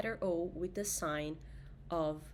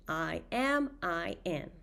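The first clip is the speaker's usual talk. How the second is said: normal talking voice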